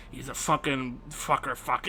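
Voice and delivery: low, hushed, furtive swearing; imitating a timid, secretive swearer; reserved cursing. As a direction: curse under your breath as if parents might hear. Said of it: "the way he's saying it is so reserved".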